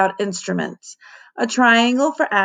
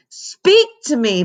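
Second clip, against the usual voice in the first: begging; 6 semitones higher, 3 dB louder than usual. A narrator's reading. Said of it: "begged Ham".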